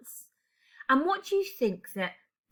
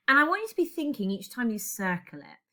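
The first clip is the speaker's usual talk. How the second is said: ordinary talk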